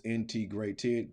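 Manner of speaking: "integrated" stretched slowly into its four beats; slow syllable count. Shown as a demonstration. Teacher confirming the four syllables of "integrated", slow. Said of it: "so four syllables".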